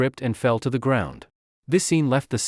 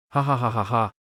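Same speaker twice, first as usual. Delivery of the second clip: laughing. Acted. Officials keep laughing.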